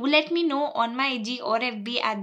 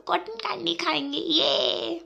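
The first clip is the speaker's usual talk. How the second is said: excited cheer; 5 semitones higher than usual. Real, not acted. Cheering about eating cotton candy.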